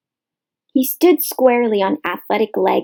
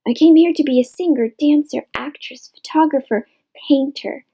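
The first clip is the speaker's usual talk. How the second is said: mock dreamy newcomer; 5 semitones higher than usual. Mocking newcomers' stock answer.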